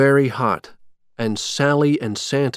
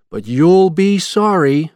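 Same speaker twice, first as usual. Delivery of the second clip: angry; 6 semitones higher, 6 dB louder than usual. A narrator's reading. Captive Sally to her laughing captor, angry warning. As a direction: warn him firmly, louder and higher. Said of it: "she said to him angrily".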